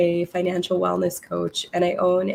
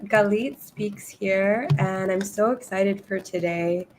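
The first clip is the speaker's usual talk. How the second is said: losing her voice, a bit rough; hoarse voice. Real, not acted. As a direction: talk through a cold-worn voice. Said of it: "I'm a little bit under the weather, um, and I'm starting to lose my voice".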